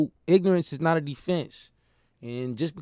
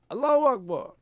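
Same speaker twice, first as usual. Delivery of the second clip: high, ringing cry of faith under the stones; screamed Allahu Akbar; 8 semitones higher than usual. Retold or imitated. Slave under stones crying out his faith, high. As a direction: call it out high like a martyr's cry. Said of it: "he would scream out".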